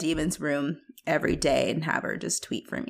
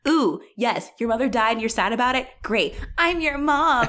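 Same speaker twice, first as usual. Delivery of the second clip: mocking demon voice; 6 semitones higher than usual.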